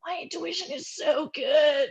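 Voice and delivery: slow, high, laughing irony; wry laugh. Real, not acted. Telling Mike her hunch was right, laughing slowly. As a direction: laugh at your own hunch proven right. Realizing partner's history confirmed.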